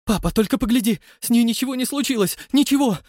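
high, loud, fast excited voice; excited son. Acted. Son showing father the intact map, thrilled. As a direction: rush it out, thrilled.

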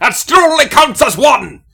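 high, loud mock-Scottish shout; Scottish Gimli impression. Doubling down after being told off for doing Gimli, shouted Scottish accent. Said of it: "do Gimli for every Scottish accent".

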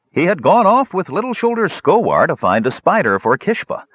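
high-pitched character voice; high elf voice. Acted. Elf answers the questioner, high character voice.

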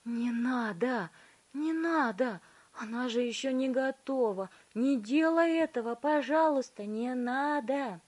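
high, slow desperate begging; pleading Wonka. A narrator's reading. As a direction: beg her over and over. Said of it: "умоляюще повторял".

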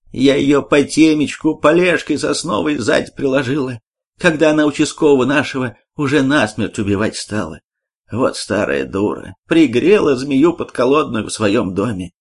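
lightly voiced old village woman; a hint of a fussy old granny telling it. Old landlady boasting of the blow.

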